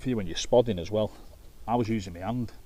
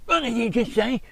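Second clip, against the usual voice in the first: much higher, louder, lisping indignant voice; Doctor Now impression; 8 dB louder than usual. Bus driver mimicking an affronted passenger, high indignant lisp. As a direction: squeak it out like an outraged Doctor Now. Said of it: "he talked like him".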